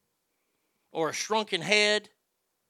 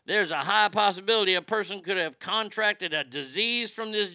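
quoting the director. Retold or imitated.

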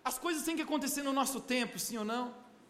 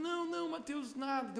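soft denial; 6 dB quieter than usual. Retold or imitated. Mother voiced denying tears.

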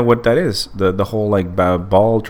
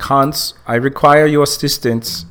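mock German accent, higher-pitched; fake German accent; 6 semitones higher, slower than usual. Joking request to partner Hans, fake German accent. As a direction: put on a hammy German accent. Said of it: "talking with a fake German accent".

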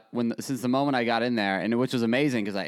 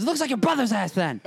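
much higher put-on old Italian grandma; 10 semitones higher than usual. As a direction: squeal it like a cranky old grandma. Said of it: "And she goes".

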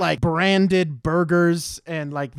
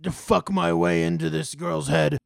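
stoner dude voice. Retold or imitated. Continues the same character quote.

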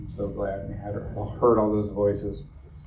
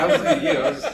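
laughing; 4 dB louder, much faster than usual. Real, not acted. Teasing exchange with audience, laughing.

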